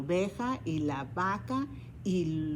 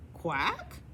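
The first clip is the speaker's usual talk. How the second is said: questioning quack; 3 semitones lower than usual. Acted. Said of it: "preguntó el pato".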